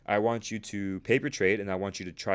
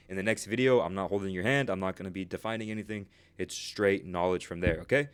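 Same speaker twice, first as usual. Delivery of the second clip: out of breath. Real, not acted. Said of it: "out of breath".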